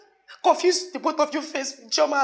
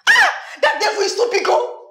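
loud deliverance prayer; 8 semitones higher, 6 dB louder than usual. Acted. Shouting prayer against the devil.

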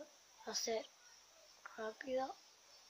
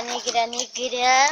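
slow drawn-out; 5 dB louder, much slower than usual. Shown as a demonstration.

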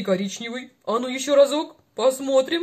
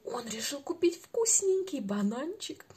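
whispering; 6 dB quieter than usual. Acted. Playful secret to child.

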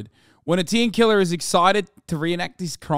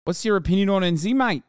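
mock Kiwi accent; 5 semitones higher than usual. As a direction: play a rowdy Kiwi bloke in a New Zealand accent. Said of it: "That's what he said".

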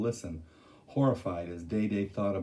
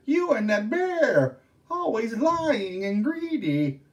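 high, loud, slow accusing voice; scolding ghost; 13 semitones higher, 7 dB louder, slower than usual. Acted. Younger ghost sister scolding her sister, slow and angry. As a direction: drag out the accusation.

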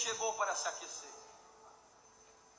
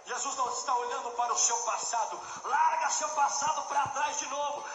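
building from firm to shouted, higher and louder; sermon climbing to a full-voiced shout; preaching at full force; 9 semitones higher, 6 dB louder than usual. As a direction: rise into a fervent altar-call shout. Altar call, building preaching.

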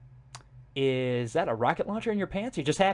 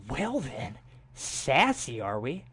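mock haughty; 3 semitones lower, 4 dB quieter, much slower than usual. Mock offended at brother.

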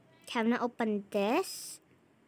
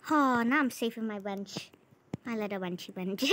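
sarcastic; 3 semitones lower than usual. Real, not acted. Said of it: "I'm being very sarcastic".

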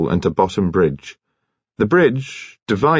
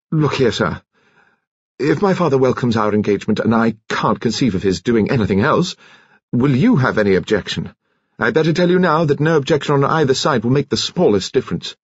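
higher-pitched, pressing protest; insistent suitor; 5 semitones higher than usual. Acted. Suitor challenging his sweetheart's father, insistent. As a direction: press the point in a raised pitch.

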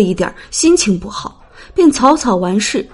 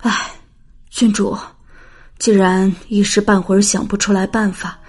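put-on softer old nanny soothing; soft comforting; 5 dB quieter than usual. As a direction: gently coax the princess. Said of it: "老嬷嬷轻声劝慰". (轻声劝慰)

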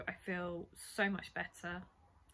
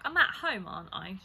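dazed insisting; 6 dB louder than usual. Retold or imitated. Dazed patient insisting to nurse.

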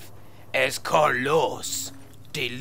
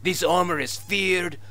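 fake Spanish accent. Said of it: "your fake Spanish accent".

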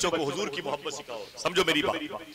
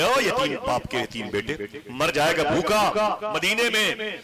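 scolding aunt; 4 semitones higher, slower than usual. Acted. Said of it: "बहुत डांटा मेरी खाला ने".

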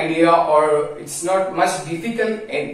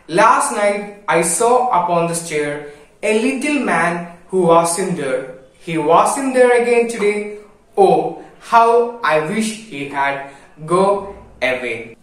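poem recitation; 2 semitones higher than usual. Acted. Teacher reciting the final stanza to the class, slowing at the end. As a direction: recite the last stanza with longing.

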